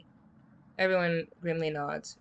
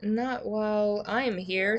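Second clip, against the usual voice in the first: Onion voice; 3 semitones higher, slower than usual. Acted. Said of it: "says Onion".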